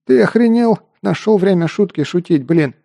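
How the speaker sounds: furious. A narrator's reading. Wounded mercenary furious at Artur's haggling. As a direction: scream at him to stop joking.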